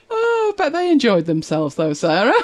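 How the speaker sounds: high, laughing teasing voice; laughing tease. Real, not acted. Teasing Sarah about the blokes, laughing. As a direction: tease her through a laugh.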